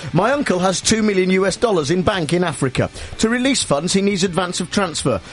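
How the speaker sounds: put-on Nigerian-accented scam email parody; mock Nigerian accent. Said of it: "That's hello in Nigerian".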